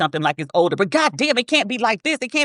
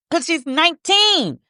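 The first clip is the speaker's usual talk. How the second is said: incredulous; 9 semitones higher, slower than usual. Real, not acted. Disbelief at abuser.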